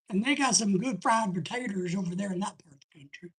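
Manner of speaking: low Eastern Southern accent. Shown as a demonstration. Host talking up the country's fried potatoes, in an Eastern Southern accent. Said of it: "That's kinda my Eastern Southern accent".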